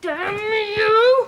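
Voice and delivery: high-pitched angry cry; angry shouting. Acted. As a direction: curse them in a fury. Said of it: "Now, stop shouting".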